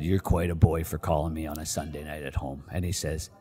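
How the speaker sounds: distinct GM voice. Retold or imitated. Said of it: "he's very distinct the way he talks".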